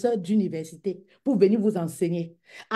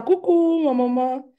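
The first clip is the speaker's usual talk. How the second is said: high, louder hello to a viewer; bright greeting; 6 semitones higher, 6 dB louder, slower than usual. Real, not acted. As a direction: call out a cheery hello.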